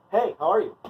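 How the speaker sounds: put-on friendly hello; polite greeting. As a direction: act a breezy social greeting. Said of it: "We went through polite".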